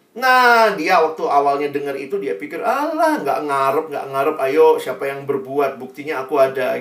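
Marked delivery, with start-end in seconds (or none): 2.6-6.8 laughing it off. Retold or imitated. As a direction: brush the insult aside. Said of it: "awal-awalnya cuman ketawa lah". (meremehkan sambil bercanda)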